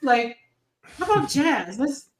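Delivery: retold coaxing, lifted in pitch at first; mock plea from a let-down parent; disappointed pleading. Heartbroken mother retelling her plea to her daughter, coaxing. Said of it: "I was so sad. I was like".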